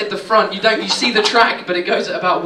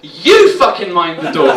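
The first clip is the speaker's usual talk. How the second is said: driver snapping back; 2 semitones lower, 7 dB louder than usual. Retold or imitated.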